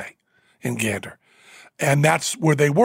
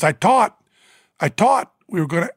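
put-on Newfoundland accent; 3 semitones higher than usual. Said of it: "I thought his accent was a joke".

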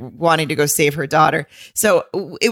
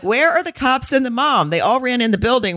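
exasperated disbelief; 7 semitones higher than usual. Retold or imitated. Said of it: "And I'm like".

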